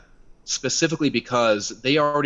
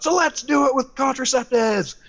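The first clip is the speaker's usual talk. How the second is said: much higher, pitched-up heckle shouted across the room; heckling yell; 3 dB louder than usual. Retold or imitated. Heckling the rally speaker about save babies, retold yell. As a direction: call it out like a heckler in the crowd. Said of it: "I yell out".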